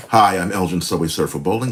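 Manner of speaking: fast, bright announcer energy; overexcited opening pitch; hyped-up intro. Shown as a demonstration. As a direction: burst in like a pitchman. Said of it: "Let's tone it down".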